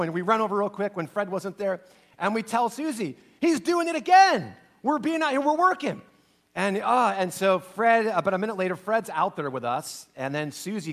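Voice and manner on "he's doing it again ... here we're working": put-on high, whiny kid tattling; mock kid whine. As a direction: complain to mom like a wronged kid. Boys tattling to Susie.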